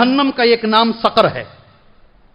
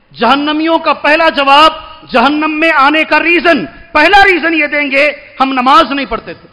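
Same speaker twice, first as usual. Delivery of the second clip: raised, emphatic sermon voice; forceful preaching; 4 semitones higher, 3 dB louder than usual. Real, not acted. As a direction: drive the point home from the pulpit.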